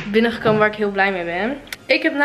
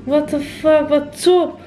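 luid praten; 4 semitones higher, slower than usual. Real, not acted. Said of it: "Niet zo hard praten". (te hard praten met oordopjes in)

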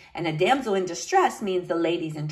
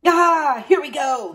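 loud, higher cry on the first word; eager battle cry; 7 semitones higher, 5 dB louder than usual. A narrator's reading. Knight setting off against an army, eagerly calling out. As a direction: launch the charge with gusto.

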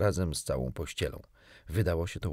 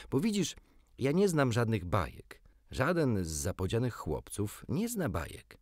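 put-on boyish Peter; 3 semitones higher than usual. Peter explains to Wendy.

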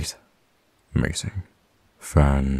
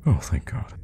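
high exhale of relief; relieved; 7 semitones higher than usual. Acted. Worried rescuer as the stranger remembers, relieved. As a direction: let the worry drop out, starting high.

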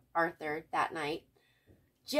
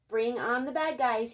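bold hero; 4 semitones higher, 6 dB louder than usual. A narrator's reading. Arthur playing superhero.

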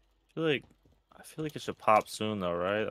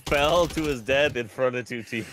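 laughing; 4 dB louder, slower than usual. Real, not acted. Laughing at teammate's death.

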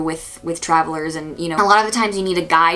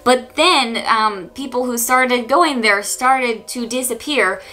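put-on Icelandic accent; 5 semitones higher than usual. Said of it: "excuse my Icelandic accent".

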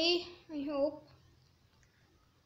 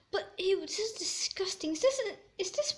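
whispering; 4 semitones higher than usual. Real, not acted. Disgust inside octopus.

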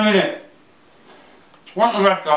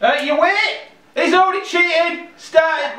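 playful outrage; 7 semitones higher than usual. Real, not acted. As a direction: call out the cheater, laughing. Accusing brother of cheating.

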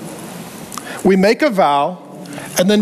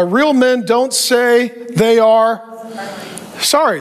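drawn-out gruff motto; a hint of a stern father; slow macho saying; slower than usual. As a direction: spell out the rule slowly in mockery.

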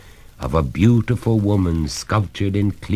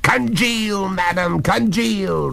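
high-pitched but restrained command; coldly; 14 semitones higher, slower than usual. A narrator's reading. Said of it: "returned Oglethorpe coldly".

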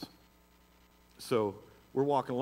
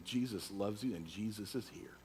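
softer, reflective retold line; quiet retelling; 2 semitones lower, 7 dB quieter than usual. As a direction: say it softly, looking back. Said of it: "by just saying".

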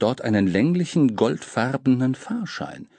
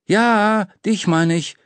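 vorlauter Junge; 10 semitones higher, 5 dB louder, slower than usual. A narrator's reading. Junge spricht ihn an.

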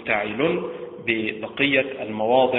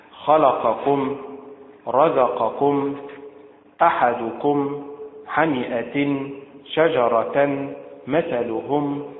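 Upper Egyptian stress; much slower than usual. Shown as a demonstration. Teacher imitating Upper Egyptian reading to students. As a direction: say خلقكم the Upper Egyptian way, slowly. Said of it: "تنطق بأداء متعل بالنبرة على حركة اللام".

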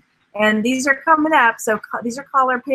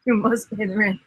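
mustache twirling villain; 3 semitones lower, 4 dB quieter than usual. Acted. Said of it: "style your mustache".

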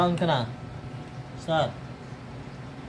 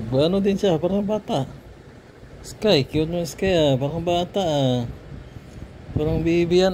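higher-pitched pet talk; cooing at a pet; 4 semitones higher than usual. Real, not acted. Cooing over the pet like a baby.

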